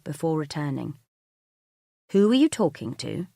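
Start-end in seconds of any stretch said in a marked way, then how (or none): 2.1-3.3 loud, higher accusing question; demanding an answer, temper held tight; furious. Acted. Mark confronting his wife in the kitchen, furious. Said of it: "This is Mark at his most furious".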